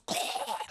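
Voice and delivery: voiceless imitated gasp; hammed-up rasp of being speared; choked death gasp. Woman speared through the chest.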